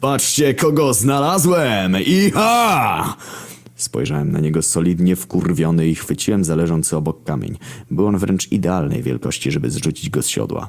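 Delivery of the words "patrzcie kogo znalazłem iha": high excited yell, iha drawn out. A rider circling on his horse calls to the others, yelling. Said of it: "Wydarł się Wojna".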